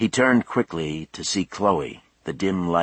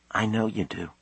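softly respectful, higher daughter's voice; no disrespect; 4 semitones higher, 5 dB quieter than usual. A narrator's reading. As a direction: acknowledge it gently, without challenge. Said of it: "no disrespect in her voice".

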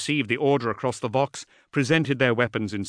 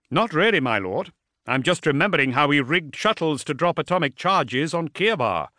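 lightly voiced concerned officer, a little higher; wary commander; 5 semitones higher, 3 dB louder than usual. Officer warns his lord of a possible attack, wary. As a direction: voice a subordinate urging caution, slightly raised pitch.

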